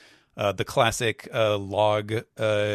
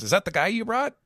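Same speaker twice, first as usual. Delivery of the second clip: fast, higher whiny complaint; Pizarro voice; 12 semitones higher, 5 dB louder, faster than usual. Acted. Injured Pizarro complains to Devon, fast whiny pitch. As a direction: grumble fast, then squeal about being hurt. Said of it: "Pizarro says".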